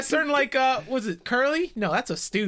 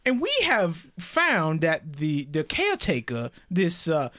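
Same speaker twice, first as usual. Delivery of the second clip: put-on Southern accent; 2 semitones lower than usual. Player still in Southern accent, accusing the caretaker. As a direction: keep up the Southern gentleman act. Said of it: "Getting more southern as we go".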